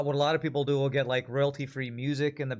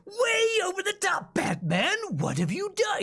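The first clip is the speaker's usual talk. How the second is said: over-the-top cartoon villain, pitched way up and drawn out; Mark Hamill's Joker. Streamer showing viewers how far the actor goes, hammed-up villain impression. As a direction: go way over the top, high and theatrical. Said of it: "Mark Hamill's Joker, you know? He's like".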